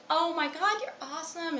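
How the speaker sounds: high-pitched gushy praise, put on; mock gushing. Vlogger mimicking how she greets people, high mock gushing. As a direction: imitate an overeager compliment, pitch jumping up. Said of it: "I'm very like".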